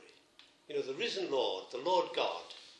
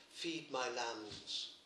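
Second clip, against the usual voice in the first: slow tender command; 3 semitones lower, 5 dB quieter, much slower than usual. Acted. Christ's words repeated, slowed.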